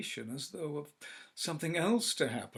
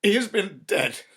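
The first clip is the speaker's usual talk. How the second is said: loud, high, trembling horror; shaking voice; 8 semitones higher, 14 dB louder, slower than usual. Acted. Husband tells his wife, voice shaking and loud. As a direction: let the voice shake. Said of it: "and his voice shook".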